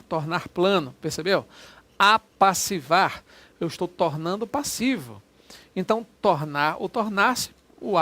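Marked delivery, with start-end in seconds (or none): 2.0-3.2 drawn out, a touch louder; slow demo word. Shown as a demonstration. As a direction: lay out the word slowly for students. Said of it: "teacher shows word". (professor pronuncia devagar para a turma)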